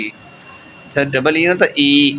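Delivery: ای drawn out long and slow; long ee demo. Shown as a demonstration. Teacher showing students German long i, slow stretched ee. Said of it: "اس طرح آپ نے پڑھنا ہوتا ہے اس کو".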